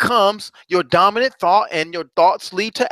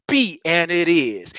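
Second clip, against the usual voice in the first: little attitude; much slower than usual. Shown as a demonstration. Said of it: "and get a little attitude".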